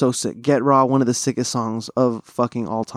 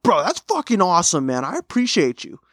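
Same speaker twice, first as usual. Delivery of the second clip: imitating Sim; 5 semitones higher than usual. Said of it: "And he was like".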